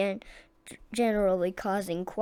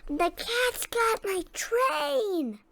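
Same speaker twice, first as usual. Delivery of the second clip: much higher, slow squeaky wail; panicked squeak; 13 semitones higher, much slower than usual. A narrator's reading. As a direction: plead in a high panicked mouse voice. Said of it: "cried the engineer".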